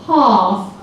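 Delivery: British half with a long open vowel. Shown as a demonstration. Teacher leading class in Shrek's British half.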